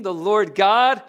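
"God" punched with a rising tune; emphasis on the name. Shown as a demonstration. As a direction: make "God" stand out from the verse. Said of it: "What's the emphasis?".

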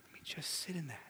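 hushed, breathy aside; whispered aside to the congregation. Real, not acted. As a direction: drop to a whisper to let it land. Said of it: "preacher drops to whisper".

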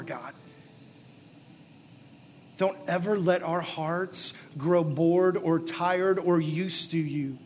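earnest prayer, lifting toward the end; pastoral prayer. Acted. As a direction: pray over the room with rising fervor. Closing prayer over congregation.

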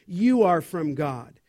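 weight on "you", falling to "God"; emphatic YOU. Real, not acted. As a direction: stress "you" and let the phrase drop. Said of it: "emphatic personal pronouns".

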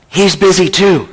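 put-on hushed, childlike matter-of-fact reply; whispering small child. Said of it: "a small voice whispered".

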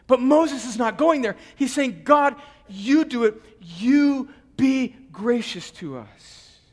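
loud preacher, slowing on the plea; fervent preaching. Acted. Pastor proclaiming Moses' plea to God, fervent. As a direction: proclaim it, then plead slowly.

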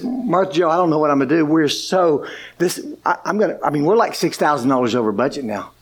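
mild, low, tearful worry; a hint of crying as he pleads; tearful pleading. Husband on the phone to his wife, lightly tearful. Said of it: "And he just starts crying".

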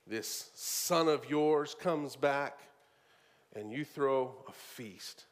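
very slow, low, contemptuous sneer; bitter sneer. Retold or imitated. The older brother scorning his returned sibling, bitter. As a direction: drag out the scorn for this son. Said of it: "See how bitter he is".

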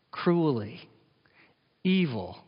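a single whispered word. Real, not acted. Preacher telling how the Pharisees treated the poor, whispered. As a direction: breathe it out, grave.

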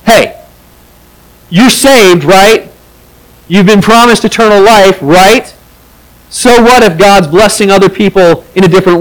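dismissive scolding. Shown as a demonstration. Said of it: "it feels like".

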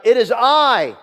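loud, high call at the door; shouting. Acted. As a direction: shout out to be recognized. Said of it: "knock on the door and shout".

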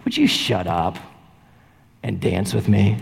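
lightly voiced girl inviting a shy boy to dance; girl asking. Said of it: "and she just goes".

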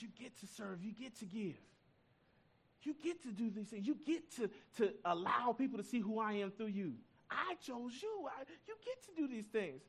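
lifted voice of God with a hint of sarcasm; God speaking. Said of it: "He said".

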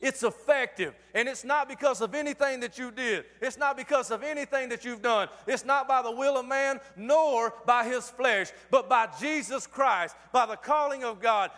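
driving, emphatic sermon rhythm; insistent pulpit delivery; forceful preaching. Real, not acted. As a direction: build each denial toward the answer.

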